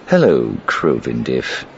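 unhurried, casual greeting; slow on the name, unbothered. A narrator's reading. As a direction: greet him as if nothing is wrong. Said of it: "he said casually".

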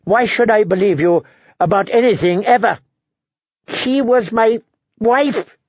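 high, anguished angry snarl; bitter outburst, slowing at the end. A narrator's reading. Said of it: "Tyrion snarled".

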